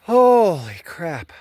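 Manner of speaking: stunned at what came out of the well; real surprise. Real, not acted. Sees the pump depth.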